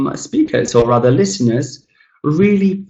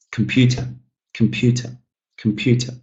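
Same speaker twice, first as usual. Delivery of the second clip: comPUter, weak first and last syllables; steady model of "computer" with strong PEW; word stress demo; 3 dB quieter than usual. Shown as a demonstration. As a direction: stress only the middle of "computer". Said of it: "they're not said that clearly".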